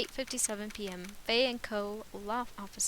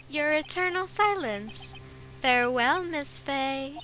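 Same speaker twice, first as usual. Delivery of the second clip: slow, put-on villain voice, higher and louder; villain voice for that guy; 3 semitones higher, 4 dB louder than usual. Villain taunting Miss Fey, in a put-on slow villain voice. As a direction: savor each word like a smug crook. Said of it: "that is a totally different voice".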